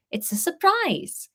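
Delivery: high slow Welsh lilt; slow coy Welsh voice; coy Welsh Harry. Acted. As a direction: tease it slowly in Welsh. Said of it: "Harry said again".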